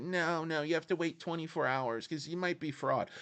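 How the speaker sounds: a light mock bank clerk; big banker voice. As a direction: brush off the customer politely. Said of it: "doing my big banker voice".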